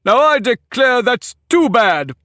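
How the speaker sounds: furious egg accusing Alice of eavesdropping; sudden passion. A narrator's reading. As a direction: burst out accusing her. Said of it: "breaking into a sudden passion".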